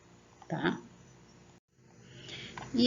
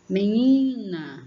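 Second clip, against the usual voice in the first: Menina called out loud, long NI; chamando; 3 semitones higher, 6 dB louder, much slower than usual. Shown as a demonstration. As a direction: call Menina, leaning on the NI. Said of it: "como se você estivesse chamando". (Menina chamada, com NI forte e alongado)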